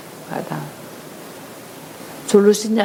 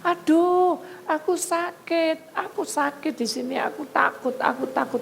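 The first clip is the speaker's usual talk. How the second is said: possessed clock wailing; 6 semitones higher than usual. Retold or imitated. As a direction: whimper it like a frightened haunted object. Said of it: "jam yang kuno ini bisa teriak-teriak".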